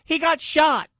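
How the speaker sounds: high-pitched incredulous outburst; exasperated protest. Real, not acted. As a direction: throw it out in disbelief. Protests at callous replies.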